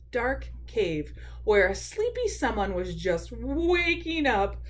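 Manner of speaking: unhurried storytime reading; children's story narration. A narrator's reading. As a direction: lead small listeners along through the tale. Reads a picture book aloud.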